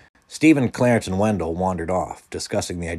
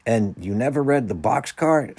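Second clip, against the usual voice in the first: higher, louder, slow disbelief; incredulous; 6 semitones higher, 6 dB louder than usual. A narrator's reading. Peter amazed Sherry missed a book, incredulous. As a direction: draw out the question, astonished. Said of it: "Peter asked incredulously".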